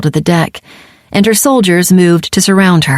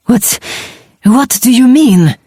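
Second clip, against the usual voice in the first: shocked gasp, pitched higher; 6 semitones higher than usual. Acted. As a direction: gasp it out in alarm. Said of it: "Kata gasped".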